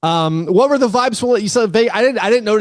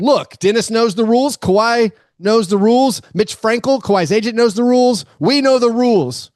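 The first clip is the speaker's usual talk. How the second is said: mock insistent repetition; 6 semitones higher than usual. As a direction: hammer "knows the rules" like a talking point. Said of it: "Lawrence Frank said".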